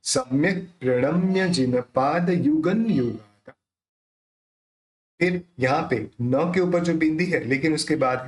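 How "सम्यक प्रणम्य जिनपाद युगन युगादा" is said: slow line with युगन ending in N; measured recital, clear N in युगन; dot as N. Shown as a demonstration. Teacher modelling the line, युगन said slowly with N. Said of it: "ये उसका pronounce निकलेगा".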